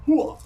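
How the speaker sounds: high loud karate yell; karate shout. Pretend. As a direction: burst out a martial arts cry. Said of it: "my karate sounds I make".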